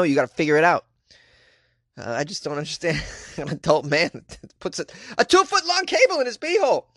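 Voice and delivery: ordinary talk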